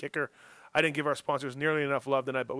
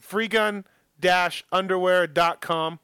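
ad plug; 4 semitones higher, 6 dB louder, slower than usual. Acted. Plugging sponsor website.

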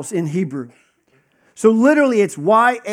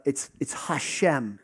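soft, slow, lowered whisper of Hashem; reverent whisper; 6 semitones lower, 10 dB quieter, slower than usual. Acted. Teacher whispering the holy name in reverence. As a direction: breathe the name like it's sacred.

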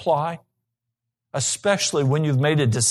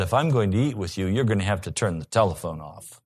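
kindly said; 9 semitones lower, 4 dB quieter than usual. Retold or imitated. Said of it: "she very kindly said".

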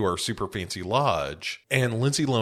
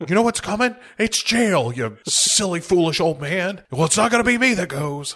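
high, loud mocking villain voice, taunting the old man; 10 semitones higher, 3 dB louder than usual. Hosts riffing as the villain taunting the foolish old man, high and loud.

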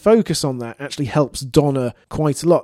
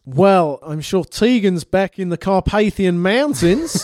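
put-on Brisbane accent; 3 semitones higher than usual. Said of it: "it's a proper Brisbane accent".

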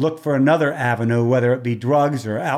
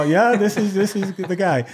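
higher, teasing answer; playful reply; 6 semitones higher than usual. Retold or imitated. Announcer teasing a caller who thinks he's being punked, pitched higher. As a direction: toss it back with a wink. Prank-sounding callback reply.

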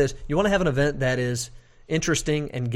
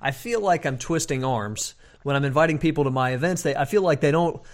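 whiny voice; 2 semitones higher than usual. Retold or imitated. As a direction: whine it like a reluctant host. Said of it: "am I using my whiny voice".

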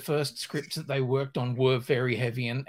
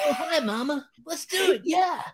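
high, lightly voiced Beast Boy; a rising, goofy teen superhero; 12 semitones higher than usual. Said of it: "his Beast Boy voice".

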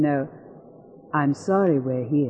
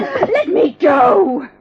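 struggling; 11 semitones higher, 8 dB louder, much slower than usual. Acted. Woman struggling in his grip.

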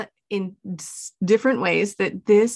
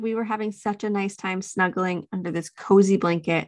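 soothing parent. Shown as a demonstration. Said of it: "I'm just saying".

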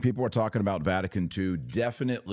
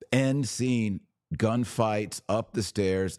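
excited; 5 semitones higher, slower than usual. Real, not acted. Excited about movie.

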